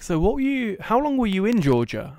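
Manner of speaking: imitating customs officer. Customs officer questioning narrator.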